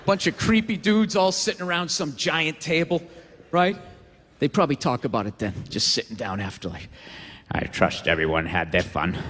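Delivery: put-on deep transatlantic villain accent; low, posh-sounding transatlantic accent. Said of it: "Not the transatlantic accent".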